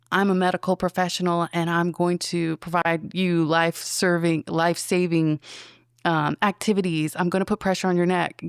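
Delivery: steady professional explaining each step; calm medic voice. Shown as a demonstration. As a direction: talk the patient through it like a paramedic. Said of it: "act and talk it through at the same time".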